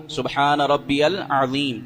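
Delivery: سبحان drawn out very slowly with a clear throaty ع; slow careful tasbih with a distinct ع; clear ain sound. Shown as a demonstration. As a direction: stretch each word of سبحان ربی العظیم, sounding the ع from the throat. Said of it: "عین کی آواز نکالنی ہے".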